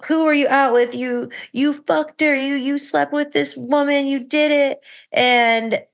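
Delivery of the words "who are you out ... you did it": put-on accusing drunk wife. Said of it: "she went from".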